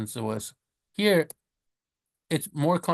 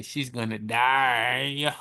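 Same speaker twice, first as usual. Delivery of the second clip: slow mock-grim aside; mock doom, drawn out; deadpan joke aside; much slower than usual. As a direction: drop it slowly like grim news. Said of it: "joke aside about incurable".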